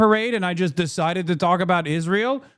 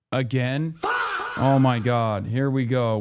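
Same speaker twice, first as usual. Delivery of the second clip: a fed-up yell of disbelief; exasperated shout; 7 semitones lower, slower than usual. Real, not acted. Reacting to breaking news.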